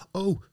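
small, high yelp of fright; mild narrated scream. A narrator's reading. Terrified fisherman facing the skeleton woman, mild high scream. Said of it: "schreeuwde hij".

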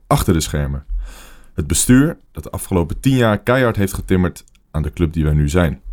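measured podcast monologue, punched phrase openings; scripted column read. Real, not acted. Host addresses AZ fans on the club's crisis, scripted column read. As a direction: read it out like a prepared editorial.

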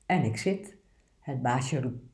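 steady, obedient picture-book reading; poem read aloud. Acted. Presenter reads the good dog poem aloud, earnest reading.

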